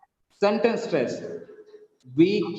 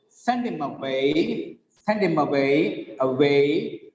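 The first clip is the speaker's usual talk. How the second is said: "away" with a light "a" and stressed "way"; slow model of "away", weight at the end; stress on second syllable; 3 semitones lower than usual. Shown as a demonstration. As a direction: lean on "way" in "away". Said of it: "Not away".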